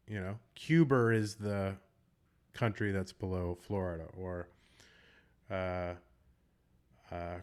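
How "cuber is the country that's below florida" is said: CUBA IS said as "Cuber is"; linking R. Shown as a demonstration. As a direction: slip an R onto the end of Cuba before "is". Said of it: "they will put an R in between them".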